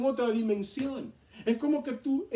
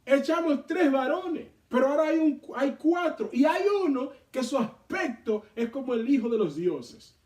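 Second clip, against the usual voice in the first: quoting the king, higher and louder; astonished retelling of the king; surprised king; 5 semitones higher, 4 dB louder than usual. Acted. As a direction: act out mild astonishment at a discovery. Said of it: "lo que le sorprende".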